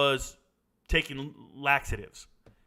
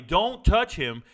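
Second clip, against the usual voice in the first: louder, drawn-out mock yell; retold scream; 2 semitones higher, 5 dB louder, much slower than usual. Soldier warning everybody off a collapsed runner, retold scream. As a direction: stretch each word in a retold shout. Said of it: "I start screaming for everybody".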